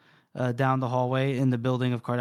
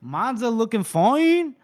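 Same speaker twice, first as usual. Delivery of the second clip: drawn-out, higher-pitched mock appreciation; admiring; 7 semitones higher, 5 dB louder, slower than usual. Man suddenly recognizes dressed-up Monza, admiring. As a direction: stretch it out slowly, imitating an impressed man. Acts out character's admiring reaction.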